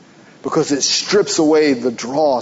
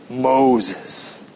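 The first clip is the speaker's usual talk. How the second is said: low, drawn-out call from God; 4 semitones lower, 3 dB quieter than usual. Acted. God calling Moses from the mountain, low and slow. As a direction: call his name like thunder from the mountain. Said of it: "I don't know if that's how it sounded".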